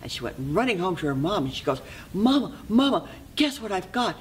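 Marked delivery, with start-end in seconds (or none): 2.1-4.2 put-on high, excited child calling mother; thrilled little girl. Girl runs home to her mom with the magic pot, high excited calling. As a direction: burst in high with eager news.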